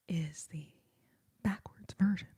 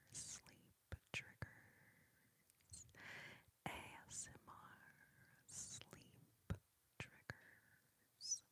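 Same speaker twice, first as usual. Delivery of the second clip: much softer, slow breathy whisper; faint ASMR whisper; 25 dB quieter, much slower than usual. Shown as a demonstration. Streamer whispering trigger words to viewers.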